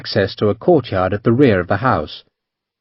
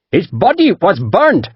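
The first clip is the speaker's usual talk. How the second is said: higher, mildly fierce merchant; fierce declaration; 8 semitones higher than usual. A narrator's reading. Merchant fiercely telling the captain the man is dead. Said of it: "Panjit declared fiercely".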